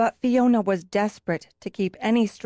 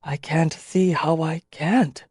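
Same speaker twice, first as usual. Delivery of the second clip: sad; 4 semitones lower, slower than usual. Acted. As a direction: gently accept the doom. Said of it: "told her sadly".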